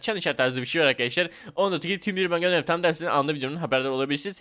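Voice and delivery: fast rattled-off subscribe plea; quick routine outro read; youtuber outro. Acted. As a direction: race through the channel sign-off.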